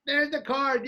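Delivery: high, showy announcement; retold stage exclamation; mock triumph. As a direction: present it as if it all worked. Retelling triumphant save to audience.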